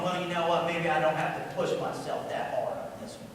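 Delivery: low, soft slacking mumble to oneself; imitated tired excuse, low and soft; half-hearted self-talk. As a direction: quietly talk yourself out of effort. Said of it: "Maybe start going".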